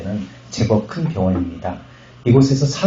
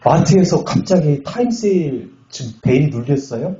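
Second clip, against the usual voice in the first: higher-pitched mock protest to God; acted exasperated complaint; 5 semitones higher than usual. Pastor retelling his tantrum at God, exasperated. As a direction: plead indignantly, replaying an old grievance. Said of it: "근데 막 화가 나가지고".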